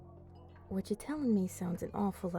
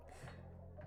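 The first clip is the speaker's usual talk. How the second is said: small, quiet amused laugh; low-key huff of laughter; soft chuckle; 15 dB quieter than usual. Acted. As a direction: let out a faint chuckle. Amused vampire teasing a newcomer.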